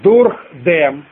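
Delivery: separated, deliberate words for writing; dictation. Shown as a demonstration. Teacher telling students to write on, deliberate dictation. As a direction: dictate each word distinctly. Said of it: "Пишите дальше".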